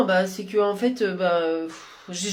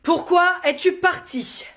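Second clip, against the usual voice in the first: slow dictation; 9 semitones higher, slower than usual. Shown as a demonstration. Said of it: "dictée read aloud".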